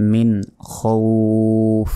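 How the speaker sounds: খৌফ with its vowel held long before f; slow "min khooouf" for মিন খৌফ; final elongation. Shown as a demonstration. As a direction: stretch the end of খৌফ. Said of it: "শেষে টান হবে".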